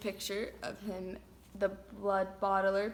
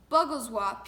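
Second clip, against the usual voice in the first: loud brutish bark; booming; 8 dB louder than usual. A narrator's reading. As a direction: boom the nonsense word out. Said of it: "he boomed".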